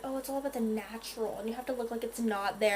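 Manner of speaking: mocking other girls. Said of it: "a lot of girls are like".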